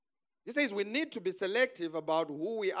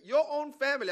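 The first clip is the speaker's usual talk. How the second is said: high, loud exclamation; indignant emphasis; 9 semitones higher, 7 dB louder than usual. Real, not acted. Preacher warning about sharing dreams with relatives, indignant exclamation. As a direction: hammer it home in disbelief.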